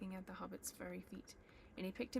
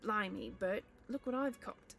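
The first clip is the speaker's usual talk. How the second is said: loud, coarse troll shout; troll calling out; 6 dB louder than usual. Acted. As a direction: bellow it like a pleased troll. Troll William calls to Bert.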